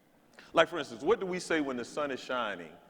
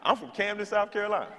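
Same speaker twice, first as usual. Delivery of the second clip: put-on meek little girl; 8 semitones higher than usual.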